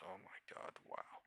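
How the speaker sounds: breathless whispered gasp; awed whisper. Real, not acted. Trader whispering at a chart in disbelief. Stunned by a market move.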